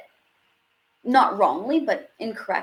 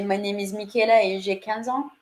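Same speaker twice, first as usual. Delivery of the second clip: French-accented English switching into French. Shown as a demonstration. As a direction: demonstrate a French accent, then slip into French. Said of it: "from the accent into the language".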